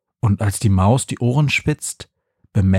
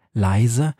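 ordinary delivery

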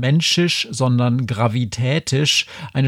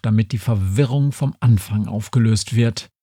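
ordinary delivery

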